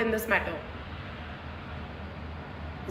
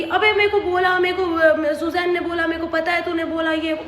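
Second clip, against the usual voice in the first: mock accusing friend; 5 semitones higher than usual. Retold argument, friend's accusation.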